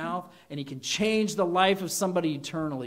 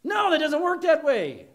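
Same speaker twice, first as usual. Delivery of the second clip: louder and higher correction; emphatic no; 10 semitones higher, 8 dB louder than usual. Real, not acted. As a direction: shut the idea down firmly. Emphatic correction after joke.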